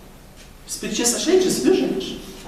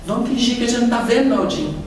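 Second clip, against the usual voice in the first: Chico quoted; 2 semitones higher than usual. Retold or imitated. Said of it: "falava o Chico pra ele".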